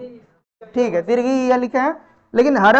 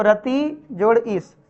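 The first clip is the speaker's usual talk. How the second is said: रति जोड़ ईश drawn out word by word; slow teaching; 4 dB quieter, much slower than usual. Shown as a demonstration. Teacher to class, slowly breaking down the word. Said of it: "teacher spelling out sandhi slowly".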